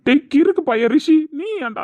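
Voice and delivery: angry shout. Acted. Yelling at silly friend.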